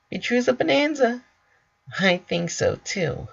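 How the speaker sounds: very high, fast bubbly voice; Pinkie. Acted. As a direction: bounce it out delightedly. Pinkie giggling agreement.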